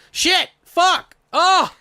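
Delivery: sudden high yelped curses; startled cursing outburst. Real, not acted. Cohost slips and curses out loud, loud yelp. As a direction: blurt the swears out, caught off guard.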